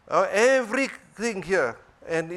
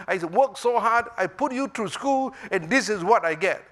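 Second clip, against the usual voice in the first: scolding parent; 3 semitones higher than usual. Retold or imitated. Parent scolding over report.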